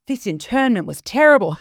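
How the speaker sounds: mild imitation of an Italian accent. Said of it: "she has this great Italian accent".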